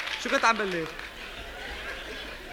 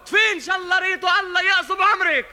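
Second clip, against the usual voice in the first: higher mock-mother cursing voice; arabic mother scolding; 4 semitones higher than usual. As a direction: echo the curse like a nagging mother. Repeats the curse in voice. (تقليد أم توبّخ بصوت أعلى)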